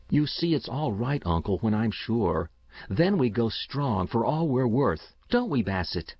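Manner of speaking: put-on a keen boy talking up his system; eager young boy. Boy Paul voiced by narrator.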